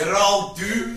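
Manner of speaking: slow, drawn-out doom warning; doom prophet. Acted. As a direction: intone it like a doom-monger. Doom-saying Scots catchphrase.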